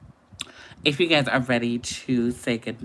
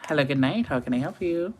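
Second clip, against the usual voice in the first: phone greeting; 3 semitones higher, faster than usual. Shown as a demonstration. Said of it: "somebody called me right now, I will say".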